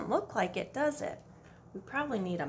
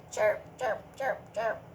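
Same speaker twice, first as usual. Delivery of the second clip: chirp. Shown as a demonstration. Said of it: "Say it with me".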